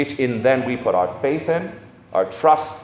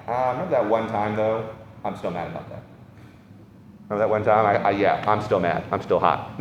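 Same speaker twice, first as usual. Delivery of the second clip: grudging Jesus. Retold or imitated. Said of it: "Jesus is gonna go".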